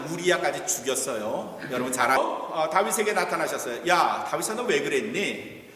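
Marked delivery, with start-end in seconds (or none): 3.9-5.7 a hint of God's voice asking David why; God's rebuke. God confronts David.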